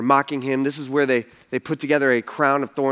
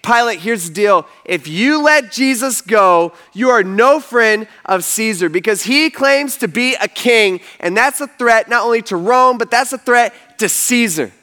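mildly raised, insistent retort; higher, emphatic half-shouted argument; shouting back; 5 semitones higher, 4 dB louder than usual. Retold or imitated. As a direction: press the threat, pitched up. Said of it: "The religious leaders shout back".

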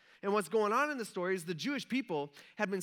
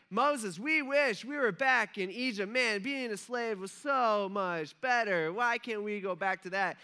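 mock complaining; 3 semitones higher, slower than usual. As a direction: imitate a people moaning for the past. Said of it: "they start complaining about that".

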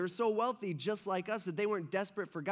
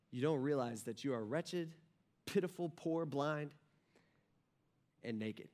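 low, quiet, with long pauses; soft pronouncement, word by weighty word; grave rebuke; 5 semitones lower, 6 dB quieter than usual. Retold or imitated. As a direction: deliver a hushed, measured verdict as Jesus. Voicing Jesus's rebuke to the church.

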